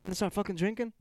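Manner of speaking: mock Aussie bloke, Australian accent; hammed-up Australian accent, tossing in mate; light put-on Australian accent. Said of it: "I'm gonna fucking be an Aussie right now".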